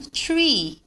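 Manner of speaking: "tree" with a hard t at the start; T in place of TH. Shown as a demonstration. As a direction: mistaken "three" said as "tree". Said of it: "Senão".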